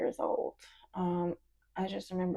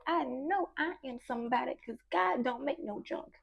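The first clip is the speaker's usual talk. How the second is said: put-on child reciting; 3 semitones higher, 3 dB quieter than usual. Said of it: "I had to say the quote".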